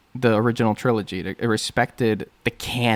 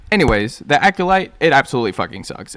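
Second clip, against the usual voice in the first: loud rant; 3 semitones higher, 6 dB louder than usual. Real, not acted. Ranting opener about the show.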